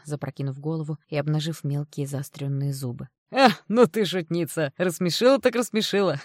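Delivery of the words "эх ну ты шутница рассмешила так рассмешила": laughing loudly. Acted. Stranger guffawing at the girl's joke, loud laughing voice. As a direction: roar it out between laughs. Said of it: "Мужчина расхохотался".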